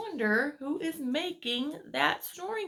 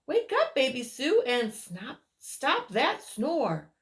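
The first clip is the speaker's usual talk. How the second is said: calling out; 4 dB louder than usual. Acted. Character calls sleeper awake.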